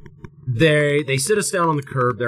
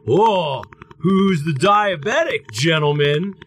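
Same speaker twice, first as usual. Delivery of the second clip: slightly higher, slow, smug mock cop; 4 semitones higher, slower than usual. Cop holding up a pen, mild smug mock voice. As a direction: draw it out like a cop sure he caught them. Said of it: "then goes".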